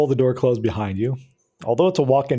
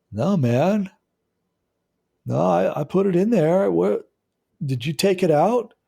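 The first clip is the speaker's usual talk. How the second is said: intruder voice; 7 semitones higher than usual. Acted. Another intruder answers.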